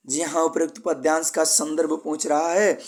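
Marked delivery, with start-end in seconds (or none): none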